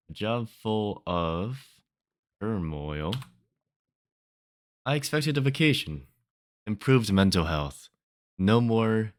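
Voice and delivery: deliberate, phrase-by-phrase spoken-word recital; poem reading. Acted. Poet recalling a hoped-for vacation after quitting, poem reading. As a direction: let each phrase of the poem hang. Reads own poem aloud.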